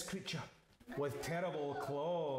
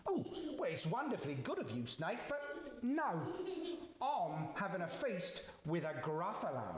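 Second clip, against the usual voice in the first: polite mouse; 3 semitones higher, faster than usual. Acted. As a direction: decline politely in a little mouse voice. Mouse politely declines the snake.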